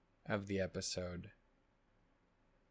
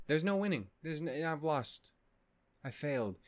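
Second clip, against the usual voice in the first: higher, whiny despair; exasperated whine; 6 semitones higher than usual. Real, not acted. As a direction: whine it in defeat. Despairing about the show.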